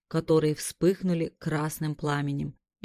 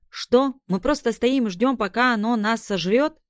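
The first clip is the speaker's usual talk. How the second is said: higher, louder incredulous outburst; alarmed protest; 6 semitones higher, 4 dB louder than usual. Acted. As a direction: protest in disbelief, voice up high. Max panics at plan.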